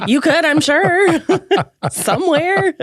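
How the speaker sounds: giggling through the words; laughing. Real, not acted. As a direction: laugh while saying it. Laughing at own joke.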